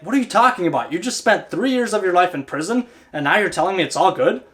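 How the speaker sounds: mildly exasperated disbelief; a touch of irritation, questioning; slightly ticked king. Acted. King to the servant freed from prison, slightly ticked. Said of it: "gets ticked a little bit".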